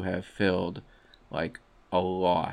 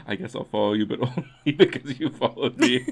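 shy reluctant; 3 semitones higher, 4 dB louder, faster than usual. Retold or imitated. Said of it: "on brand for you, please don't perceive me".

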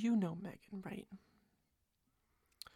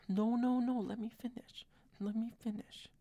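mock protest; 4 dB louder than usual. Playfully cutting off listener.

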